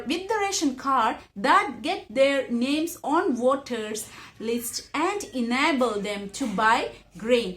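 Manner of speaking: slow, careful read-aloud of the English passage; measured classroom reading; slow textbook reading. Acted. Reads text aloud.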